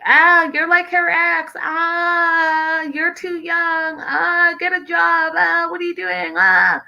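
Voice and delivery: high mocking nagging voice; high mocking voice of disapproving elders; mock scolding parents. Mocking family's disapproving comments.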